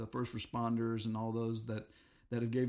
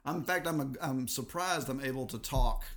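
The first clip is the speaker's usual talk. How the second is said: hoarse voice from a cold; gravelly voice. Real, not acted. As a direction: talk through a sore, raspy throat. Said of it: "I've got this kind of a gravelly voice going on".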